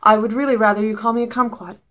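softly voiced, measured request; polite aside. Someone politely pulling the speaker aside to correct them, polite. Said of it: "politely pull me aside".

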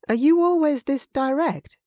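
a hint of jaw-dropped surprise; taken aback.

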